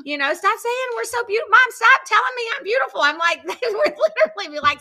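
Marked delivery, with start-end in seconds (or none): 0.3-3.0 put-on high, fast whiny teen complaint; mock whiny daughters. Mom imitating her daughters whining at her. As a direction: whine it like an annoyed daughter.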